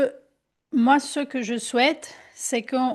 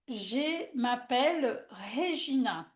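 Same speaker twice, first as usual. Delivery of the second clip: slow affirmation; 5 dB quieter, slower than usual. Shown as a demonstration. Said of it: "je vais dire".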